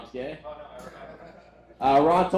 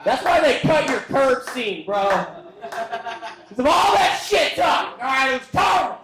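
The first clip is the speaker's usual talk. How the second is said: high, loud yelling back, laughing; laughing shout; 10 semitones higher, 4 dB louder, much slower than usual. Real, not acted. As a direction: shout down the heckler, half-laughing.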